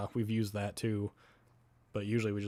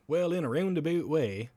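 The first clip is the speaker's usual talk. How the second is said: mock Minnesota lilt, pitched up and louder; mocking Minnesotans; 6 semitones higher, 4 dB louder than usual. Wisconsinite mocking Minnesota neighbours, sing-song mock tone. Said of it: "and we go".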